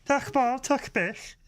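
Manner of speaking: put-on high, slow Brummie-accented Klingon; Birmingham Klingon. Co-host showing off a Birmingham Klingon, mock Brummie accent. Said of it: "Birmingham Klingon is fucking brilliant".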